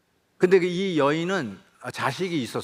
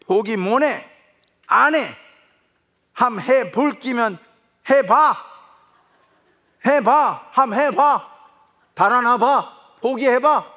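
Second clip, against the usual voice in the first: much higher and louder, defiant Gyeongsang yelling; acted Gyeongsang shout; 9 semitones higher, 7 dB louder, slower than usual. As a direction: dare the son to run, shouting. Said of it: "제가 액팅을 해야 되겠습니다". (도망치려는 아들에게 외치는 경상도 아버지, 크고 높은 고함)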